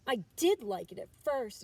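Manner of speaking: put-on a small raccoon child owning up; admitting, child voice. A narrator's reading. Chester admits to his mother, lightly voiced child. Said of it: "admitted Chester".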